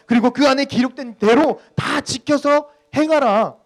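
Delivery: loud, high, drawn-out command; God commanding. Acted. Pastor re-voicing the verse as God's charge, forceful command. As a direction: hammer out each phrase as God's order. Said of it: "하나님께서 우리들에게 분명히 이렇게 이야기하잖아요".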